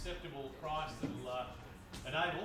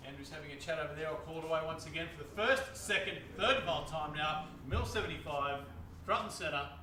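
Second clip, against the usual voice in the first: lively auctioneer bid call; auction bid spotter. Real, not acted. Auctioneer calling bids.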